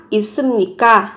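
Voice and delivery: 있습니까 at everyday pace; quick natural say. Shown as a demonstration. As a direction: toss off 있습니까 quickly, as in normal speech. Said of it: "Có nghĩa là có không?".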